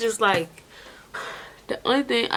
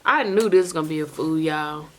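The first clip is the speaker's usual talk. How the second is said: slurring, tipsy speech; slightly slurred and loose; 3 semitones lower than usual. Real, not acted. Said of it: "And I know I'm drunk".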